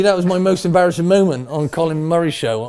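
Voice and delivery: high, loud and worked up; loud, amused outburst. Real, not acted. Guest owning up to an embarrassing moment, loudly animated. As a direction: burst out with the confession, easing slightly.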